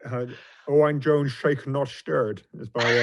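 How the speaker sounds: a lightly voiced, feeble Scottish film-spy accent; Sean Connery accent. Asked for a Scottish accent on the podcast, faint Scottish put-on. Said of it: "pathetic Sean Connery accent".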